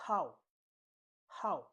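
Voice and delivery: Mandarin fourth tone on HOW, short drop. Shown as a demonstration. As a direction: drop HOW fast from the top. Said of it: "the last tone".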